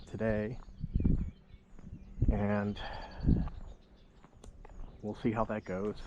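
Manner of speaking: slightly slurred numb mouth; talking through a numb mouth; numb from the dentist. Real, not acted. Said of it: "My mouth is still numb".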